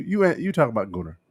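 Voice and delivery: movie trailer voice. Acted. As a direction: sound like Mister Movie. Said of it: "Is that your natural voice, like the movie phone voice".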